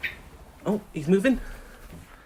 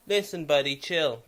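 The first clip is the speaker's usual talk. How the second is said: soothing a bird; 3 dB quieter than usual. Real, not acted. To the hurt bird in dad's room, softly soothing. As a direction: gently settle a scared animal.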